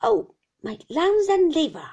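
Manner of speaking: loud, high, whining wail; anguished old shopkeeper's howl; old man's cry. A narrator's reading. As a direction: cry out in a fierce rising and falling singsong. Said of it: "cried the old man".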